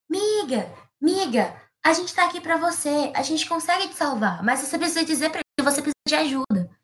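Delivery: high, pleading call to a friend. Acted. Friends call to the ant stuck in caqui, high pleading call. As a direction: shout encouragement up to her. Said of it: "todo mundo gritava".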